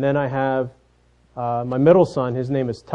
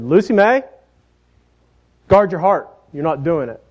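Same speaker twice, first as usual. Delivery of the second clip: put-on higher, firmer warning to a stubborn child; stern mother; 3 semitones higher than usual. Mom losing patience with defiant Lucy, stern warning. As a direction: put your foot down, full name and all. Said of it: "that tone that was changing".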